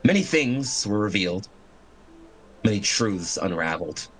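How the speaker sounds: measured, dramatic scene setting; game master narration. Acted.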